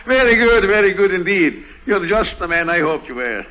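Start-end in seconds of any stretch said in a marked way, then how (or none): 0.0-1.6 laughing, a bit louder; amused laugh. Acted. Banker Feckerty approves of Lime's nerve, laughing. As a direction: chuckle your approval.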